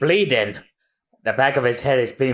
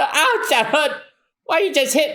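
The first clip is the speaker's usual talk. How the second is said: higher, whining complaint; whiny ouch; 10 semitones higher than usual. Acted. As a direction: whine like you got hit. Whiny after a hit.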